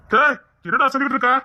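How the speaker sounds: can't believe what he heard; shocked brother reacting to the proposal. Shocked at marriage suggestion.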